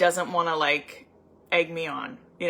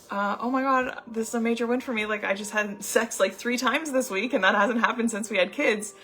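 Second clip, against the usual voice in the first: higher, thrilled retelling of the friend; a friend bursting with good news; excited friend; 4 semitones higher than usual. Retold or imitated. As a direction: gush like she can't believe it. Friend's thrilled report retold.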